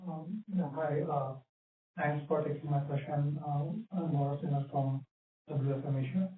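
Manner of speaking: muffled, as if through a hand; muffled audio. Real, not acted. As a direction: voice covered and dulled. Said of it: "your audio is muffled".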